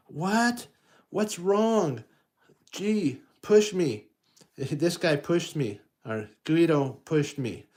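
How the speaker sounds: put-on high complaining kid voice; upset little kid. A child complaining he was pushed, high whiny kid voice. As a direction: tattle like a hurt child.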